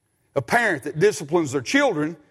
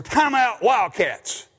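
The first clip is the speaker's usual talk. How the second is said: announcer call; 4 semitones higher, slower than usual. Retold or imitated. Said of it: "sometimes Bill will say".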